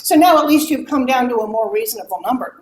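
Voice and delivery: high, fast, mocking singsong of a tactless mother; mocking imitation. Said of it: "is how I heard it".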